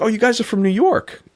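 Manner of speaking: put-on high, bright-eyed girl's question. Girl voiced in a story.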